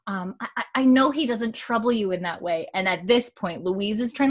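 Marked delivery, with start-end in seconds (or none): 0.4-2.7 stuttering Mary. Retold or imitated. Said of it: "Mary has a little bit of a stutter".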